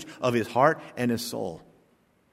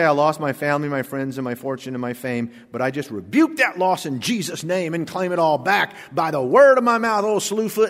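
mock prosperity preacher. Preacher mocking a false Job with a hammed-up claiming voice. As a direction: parody a name-it-claim-it preacher, rising up. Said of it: "Job didn't say".

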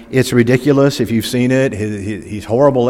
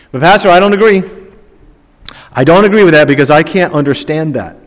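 mock protest, pitched up and louder; objecting doubter; 5 semitones higher, 5 dB louder, faster than usual. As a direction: voice the skeptic's protest.

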